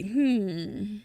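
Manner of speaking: mid-yawn hum. Real, not acted. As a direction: yawn through it. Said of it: "where I always yawn".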